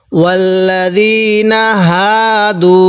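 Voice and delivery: slow, drawn-out tajweed recitation; recited demo. Shown as a demonstration. Teacher reciting the verse for students, slow and drawn out. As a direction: chant ওয়াল্লাযীনা হাদু slowly with the long a held. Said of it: "তাহলে আমি কিভাবে পড়লাম?".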